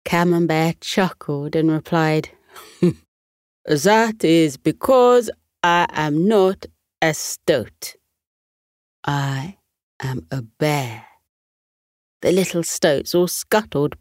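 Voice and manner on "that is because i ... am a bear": slow chuckling bear. Acted. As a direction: rumble it out as a friendly bear.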